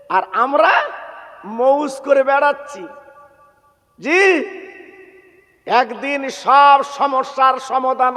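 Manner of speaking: sing-song sermon exhortation with held phrase endings; melodic preaching. Real, not acted. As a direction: preach in ringing phrases, pausing after each.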